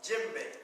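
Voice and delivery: Djembe said as JEM-bay, first syllable stressed; teacher saying the drum's name. Shown as a demonstration. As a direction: model Djembe for the class. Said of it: "So this drum is called what?".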